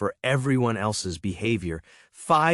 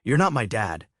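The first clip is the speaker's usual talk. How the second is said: sneered; 2 semitones higher than usual. Acted. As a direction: sneer You're not my dad at near normal level. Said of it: "he sneered".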